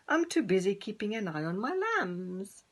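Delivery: a hint of a sheep voice; busy mother sheep, lightly voiced; lightly bleating sheep. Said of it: "bleated Sally".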